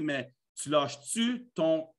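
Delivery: slow, drawn-out Québécois nagging; partner's slow Québécois grumble; Quebec accent. Acted. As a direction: complain in broad Quebec French, dragging out the words. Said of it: "le copain ou la copine dit... bon accent québécois".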